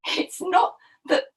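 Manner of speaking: lightly acted, flustered crocodile; confessing crocodile. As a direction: stumble reluctantly toward the truth.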